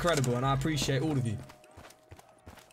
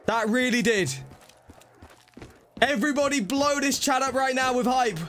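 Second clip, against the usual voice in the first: hyped; 7 semitones higher than usual. Real, not acted. Hyping a big donation.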